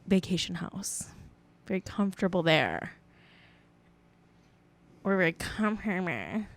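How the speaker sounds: a hint of a rich guy bragging quietly. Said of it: "that was his voice".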